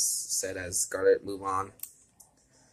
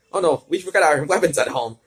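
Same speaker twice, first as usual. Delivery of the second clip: mock dismay; 7 semitones higher, 9 dB louder than usual. Realising they forgot weapons.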